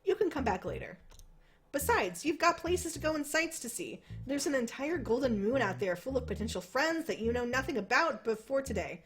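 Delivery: second-person game narration read aloud; story narration. A narrator's reading.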